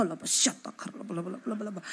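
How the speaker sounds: rapid tongues babble, fading to soft; speaking in tongues. Retold or imitated. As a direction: rattle off the tongues syllables. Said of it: "Bahasa roh".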